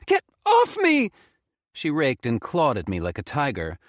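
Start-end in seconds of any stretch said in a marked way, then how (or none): 0.1-1.1 high, loud, slow furious scream. Acted. Faye screams at Felix to let her go, loud. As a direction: fight him off with your voice. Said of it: "she fought and screamed".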